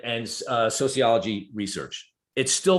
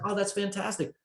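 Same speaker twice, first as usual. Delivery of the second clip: mock impressed; 9 semitones higher, 4 dB quieter than usual.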